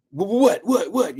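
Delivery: rapid mock-startled whats; mimicking sis's reaction. Streamer imitating cynical sis on air, mocking. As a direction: imitate her sputtering in confusion. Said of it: "she'll think I, you know, she'll".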